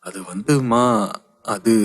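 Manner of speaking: halting, unfinished excuse; hesitant. Acted. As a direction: stall for words nervously. Stalling before angry mother. (தயக்கத்துடன் இழுத்து)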